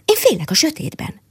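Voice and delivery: a high, timid little squirrel admitting fear. Acted. Squirrel tells the mole she fears the dark, high and timid. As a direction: lift into the squirrel's small frightened voice. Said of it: "mondta a mókus".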